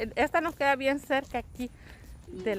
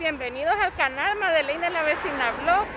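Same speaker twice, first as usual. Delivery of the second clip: bright squeaky sing-song welcome; 4 semitones higher, 3 dB louder than usual. Real, not acted. Saludo de apertura del vlog.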